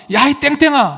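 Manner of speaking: retold insult shout. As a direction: bark the insult like a scornful cave dweller. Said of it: "정말 욕을 씁니다".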